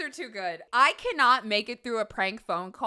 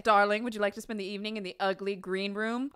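quick, lightly acted wealthy spouse; a hint of put-on grandeur; mock rich homeowner; 2 semitones lower, faster than usual. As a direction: imitate a rich spouse making an invitation. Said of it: "what these people look like".

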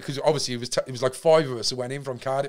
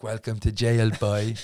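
gruff guard voice; 4 dB louder, slower than usual. Retold or imitated. Prison guard greeting new inmate.

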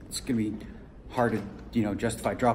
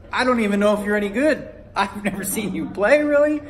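laughing through it; 8 semitones higher, 4 dB louder than usual. Retold or imitated. Retelling his own laughing reply.

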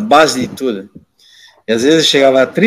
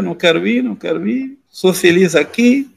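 higher-pitched, mildly whiny plea; tearful pleading, retold; 5 semitones higher than usual. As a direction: imitate a boy begging to stay. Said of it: "Aí comecei a chorar".

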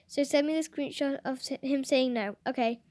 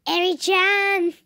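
slow, loud, drawn-out squeal; fangirl coo; 5 semitones higher, 7 dB louder, slower than usual. Real, not acted. Seeing a picture of Eri, gushing. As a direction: gush over the name. Cooing over a character picture.

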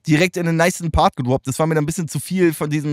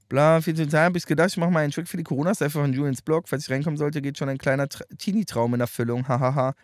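low, softer read-out; reading aloud; 4 semitones lower, 4 dB quieter than usual. Real, not acted. Streamer reading a rapper's statement to viewers, low read-aloud. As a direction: read the post out quickly and quietly.

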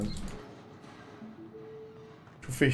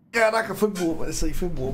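panicking gamer; 4 semitones higher than usual. Real, not acted. Praising the scare.

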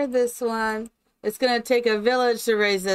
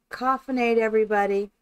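toast the viewers, coffinade punched; hearty greeting; 2 semitones higher, 4 dB louder, faster than usual. Real, not acted. Streamer toasts viewers, loud and cheery. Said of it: "coined greeting to viewers, repeated".

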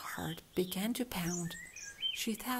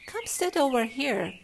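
calling out; 5 semitones higher, 8 dB louder than usual. A narrator's reading. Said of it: "called Anita".

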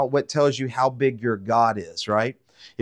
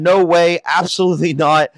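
loud, emphatic no from the king; firm refusal; 3 semitones higher, 5 dB louder than usual. Acted. Pharaoh refusing Moses and Aaron, loud and emphatic. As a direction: slam the door on the request.

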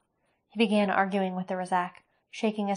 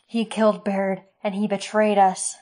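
louder, raging through tears; crying with rage; 6 dB louder than usual. Acted. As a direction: let the rage break through. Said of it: "Tears of rage streamed down".

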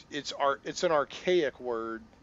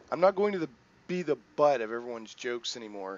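louder, set firm; determined mutant boy; 8 dB louder than usual. Acted. Pico vows never to be a joke again, determined. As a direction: plant your feet and refuse. Pico's resolve.

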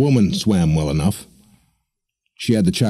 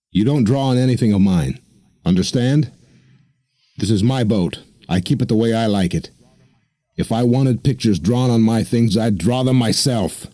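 snarling; 5 semitones higher than usual. Acted. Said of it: "he snarled at the child".

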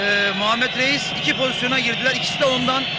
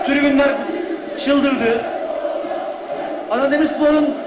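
excited commentator; 3 semitones higher than usual. Real, not acted. Excited call after goal.

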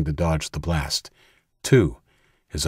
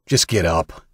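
yelled. Acted. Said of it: "yelled Danny".

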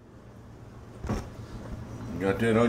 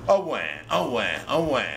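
hammed-up fake sobs with oh and wah; mock crying. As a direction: pretend the onion fumes make you bawl. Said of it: "That's what makes you cry".

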